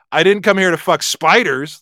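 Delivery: "come" leaned on; stress on come. Shown as a demonstration. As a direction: put the weight on "come". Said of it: "by the word you emphasize".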